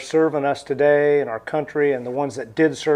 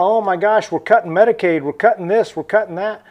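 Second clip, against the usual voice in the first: higher-pitched imitation of complainers; mock whining; 4 semitones higher than usual. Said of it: "the people whining and complaining now".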